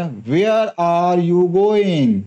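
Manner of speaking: Where are you going? very slow, voice dropping at going; falling intonation. Shown as a demonstration. Teacher demonstrating a falling question tune. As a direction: bring going down at the end. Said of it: "आवाज अंत में नीचे जाती है".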